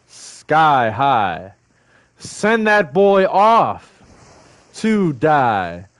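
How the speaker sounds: slow, rhythmic, punchy spoken word; slam poet. Shown as a demonstration. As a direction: hit each phrase like a slam poem. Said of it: "I'm a slam poet".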